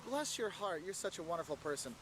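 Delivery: ordinary talk, nothing marked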